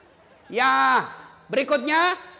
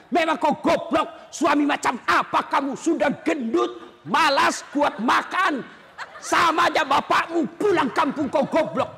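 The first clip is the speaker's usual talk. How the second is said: hammed-up nagging wife insults; mock scold him, half laughing; cursing the husband; 3 semitones higher than usual. Preacher acting a wife insulting her lazy husband, mock angry. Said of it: "tidak boleh maki-maki".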